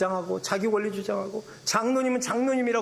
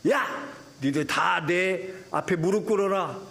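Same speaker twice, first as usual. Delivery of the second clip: bossy demand. Pretend. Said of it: "막 이러시면서 자기 권위를 내세우셨으면".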